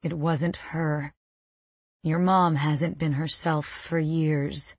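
low, soft, hushed comforting; dad's whisper. A narrator's reading. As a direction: speak low and close, like a consoling father. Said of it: "Dad whispers against my head".

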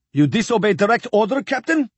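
rising to a high disbelieving Captain; incredulous admiral. A narrator's reading. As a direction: demand an answer in disbelief. Admiral Kuchesov voiced in reading.

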